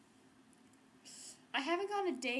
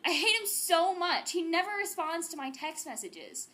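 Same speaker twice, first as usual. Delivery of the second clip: mock angry rant; 5 dB louder than usual. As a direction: spit out the hate, dragging it. Teen ranting about her boyfriend.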